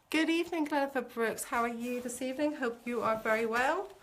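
lightly put-on formal greeting; a hint of mock-formal address. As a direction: playfully announce it, slightly hammed-up. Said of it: "said to put this on".

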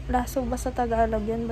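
speaking with lip held aside; lip pulled by fingers. Real, not acted. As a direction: fingers stretching mouth corner. Seen 0: Fingers pinch and pull the lip aside, showing braces, throughout.

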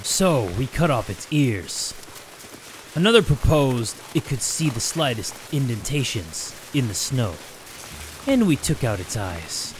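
low, measured storyteller; slow, deliberate narrator; story narration. Acted. Reads game text.

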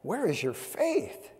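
soft, slow, searching question; gentle rebuke. A narrator's reading. Jesus chiding his disciples after the calm, soft and slow. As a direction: ask it slowly and softly, like a quiet reproach. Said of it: "he said unto them".

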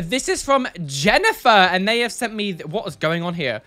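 normal talking voice

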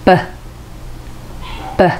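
"ブ" as a short lip burst; "ブ" cut short, just the b; B consonant sound. Shown as a demonstration. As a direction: pop the lips open on "ブ". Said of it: "上唇と下唇を閉じて開ける".

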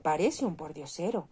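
a lightly voiced chorus of yes-men; echoing councillors. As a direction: echo it meekly, just agreeing. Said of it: "repitieron a coro los concejales".

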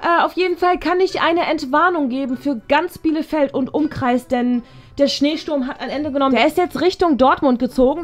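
lightly voiced formal principal announcement; Frau Barsch announcing. Principal telling students the storm has passed, formal announcement. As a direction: give the all-clear like a school head. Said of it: "hier ist erneut Frau Barsch".

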